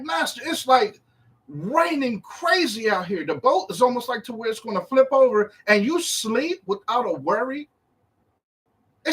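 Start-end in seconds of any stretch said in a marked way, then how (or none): 0.0-7.7 higher-pitched, lightly acted plea to the master; alarmed disciple. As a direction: complain in mild alarm, voice raised in pitch. Acts disciples waking master in storm.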